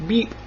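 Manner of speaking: truck horn beep. A narrator's reading. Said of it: "said Blue".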